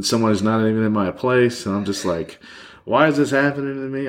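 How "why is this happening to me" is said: mildly reliving crying out at the sky; retold drunken yell. Drunk and alone, calling out at God in despair. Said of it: "and I'm yelling at everyone".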